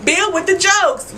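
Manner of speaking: laughing hard through the words; real laughter at Bill's joke. Real, not acted. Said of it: "I laughed".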